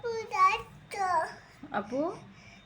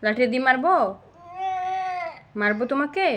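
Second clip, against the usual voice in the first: scolding; 3 semitones higher, 4 dB louder, faster than usual. Real, not acted. Parent threatens child over reading.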